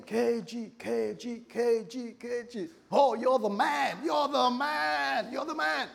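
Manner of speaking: high, drawn-out mock cheering; hailing. Club crowd hailing the big spender, rising hammed-up cheers. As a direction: hype him up like an adoring crowd, building to a stretched shout. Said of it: "And they'll be hailing him".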